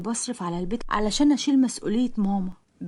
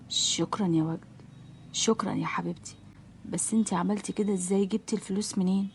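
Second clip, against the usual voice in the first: tender mother; 2 semitones lower, 6 dB quieter than usual. Acted. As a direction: thank your daughter softly from the sickbed. Bedridden mother thanks daughter.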